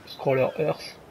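English name in a thick French accent; real French-accented English; bad English accent. Real, not acted. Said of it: "désolé de mon accent pourri".

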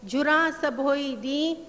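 slow, measured reading of Sufi verse; verse recitation. Acted. Lecturer reciting Baba Farid's couplet to the audience, slow and measured. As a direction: recite the couplet slowly, savouring each line. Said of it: "بابا فرید کے دو اشعار ... پیش کرتی ہوں".

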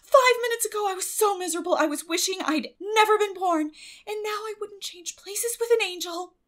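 put-on high, quick girlish voice, aggrieved; a child pouring out her reasons; eager girl Anne. Anne overjoyed.

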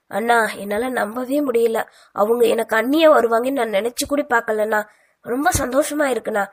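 happy now, hardly believing it; overjoyed. Acted. Sister delighted to get her future sister-in-law, joyful. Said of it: "ஆனந்த மிகுதியில் கூறியவள்".

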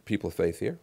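soft, low, confiding; gentle coaxing. Retold or imitated. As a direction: lean in and coax them quietly. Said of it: "I often ask people, I say".

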